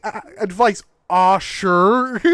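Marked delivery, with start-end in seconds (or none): 1.1-2.2 mock Irish. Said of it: "Irish accent".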